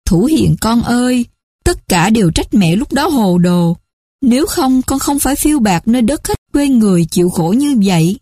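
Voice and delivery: a hint of tears as she apologises; mẹ kế nghẹn ngào nhẹ; tearful stepmother. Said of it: "rơi nước mắt nói".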